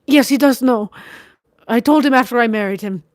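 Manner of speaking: vehement bitterness. A narrator's reading. Wife bitterly confessing her marriage, vehement scorn. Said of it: "She spoke with vehement bitterness".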